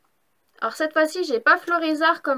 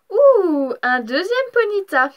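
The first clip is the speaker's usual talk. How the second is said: excited; 3 semitones higher, 5 dB louder, slower than usual. Real, not acted. Second rare pull, delighted.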